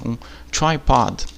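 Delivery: tripod said slowly as "tai-pad" in English; English word tripod. Shown as a demonstration. Teacher modeling a new English word, slowly. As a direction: stretch out tripod, English vowels. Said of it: "Vamos supor que seja um tripé".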